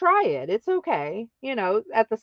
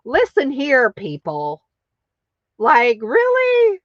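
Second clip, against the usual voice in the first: louder, higher protest; mild sassy clapback; mock indignant; 4 semitones higher, 4 dB louder than usual. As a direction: call them out with sass. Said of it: "And I was like".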